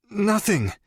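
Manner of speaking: high, frightened little voice; a captive squeaking out a lie; terrified denial. Acted. Frightened captive denies knowledge.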